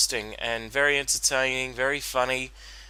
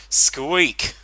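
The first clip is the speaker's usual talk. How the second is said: mock squeak call; 4 semitones higher, 7 dB louder than usual. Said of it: "had she voice crack and then go".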